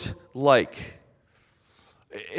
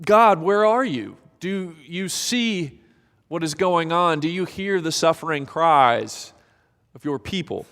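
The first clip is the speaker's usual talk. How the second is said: a raw prayer of anguish; desperate cry to God; 2 semitones higher than usual. Acted. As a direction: call out to God in despair.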